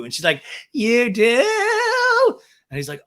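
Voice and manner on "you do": much higher, louder squeal of delight; mock gasp. Podcaster imitating Raquel squealing at Schwartz. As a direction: squeak it like a thrilled kid.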